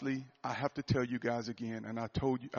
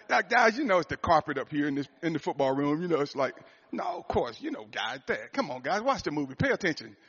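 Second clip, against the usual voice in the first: higher, louder, laughing excuses; laughing denial; 3 semitones higher, 6 dB louder than usual. Retold or imitated. Dad denying tears to his family, laughing through excuses. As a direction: laugh while brushing it off. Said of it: "I said".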